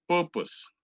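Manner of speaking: "purpose" slowly, R silent; correct purpose. Shown as a demonstration. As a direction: drop the R in "purpose". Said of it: "R is silent there".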